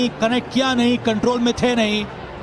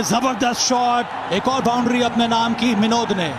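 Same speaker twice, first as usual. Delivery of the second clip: excited cricket commentary. Real, not acted. Boundary called live.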